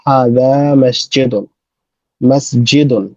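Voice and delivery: হাদা with the long a stretched, slowly; drawn-out hada. Shown as a demonstration. Teacher slowly stretching the vowel for students. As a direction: stretch the alif in হাদা মসজিদুন. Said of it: "আমরা একটু এটা টান দিয়ে বলবো".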